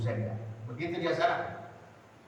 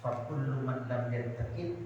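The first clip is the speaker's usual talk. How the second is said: kiai reciting correction; slower than usual. Retold or imitated. Kiai correcting the young imam, slow gentle recitation. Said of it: "Antum tadi baca nazamnya salah".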